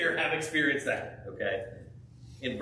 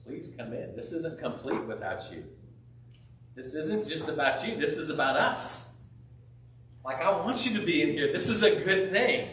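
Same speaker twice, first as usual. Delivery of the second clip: pleading father. Retold or imitated.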